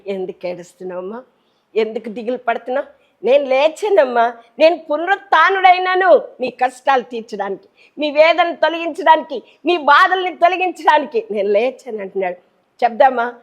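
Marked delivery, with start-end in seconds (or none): 0.1-2.9 gentle consoling. Acted. Voices the Lord consoling a weeper. 3.2-12.0 triumphant declaration. Acted. Voices the risen Lord's declaration.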